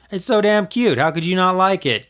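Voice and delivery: laughing. Acted. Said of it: "Chris laughed".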